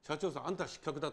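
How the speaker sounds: understated standard Tokyo-dialect telling-off. Shown as a demonstration. Racketeer telling a company president he has failed, in Tokyo dialect. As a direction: dismiss the boss in plain Tokyo dialect. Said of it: "これは東京弁だとね".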